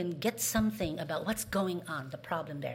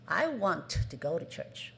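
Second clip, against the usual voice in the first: eager wanting; 2 semitones lower than usual. Shown as a demonstration. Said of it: "Do you hear a difference?".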